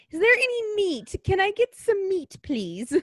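high, far-off pleading whine; begging voice. Retold or imitated. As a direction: beg for meat like a hungry kid. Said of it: "We're like".

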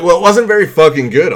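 loud, high-pitched sarcastic complaint; hammed-up outrage at a bad drink; mock indignant complaint. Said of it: "And I was like".

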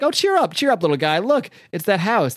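high opening, mock-consoling lilt; imitated grandmotherly encouragement; coaxing cheer-up. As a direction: coax a sulking child lightly.

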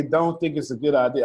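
lightly voiced cousin saying Dom; a hint of the cousin's drawn voice; cousin impression. Cousin who always calls him Dom, a light impression. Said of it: "that's exactly what his voice sound like".

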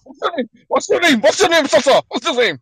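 high silly voice. Pretend.

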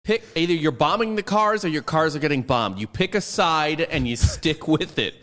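high, loud, insistent; hammed-up heated lecture; excited rant. Joking rant, raised voice.

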